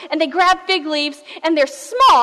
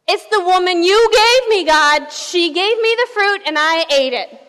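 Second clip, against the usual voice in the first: raised, higher voice shifting blame; Adam's defensive blame; 3 semitones higher, 3 dB louder than usual. Acted. Adam blames Eve before God, loud and defensive. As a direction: blurt out an excuse, loud at first.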